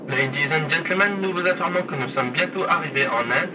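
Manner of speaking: airline captain on the cabin speaker; pilot cockpit headset. Pretend. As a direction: announce it like a pilot over the PA. Mock flight announcement.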